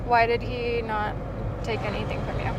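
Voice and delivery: loud, slow disbelieving question; loud surprise. Real, not acted. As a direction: ask it loud and incredulous. Astonished at police letting go.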